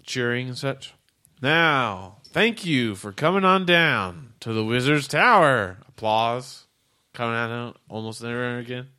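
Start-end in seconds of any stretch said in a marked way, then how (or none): 1.4-5.8 robot greeter. Acted.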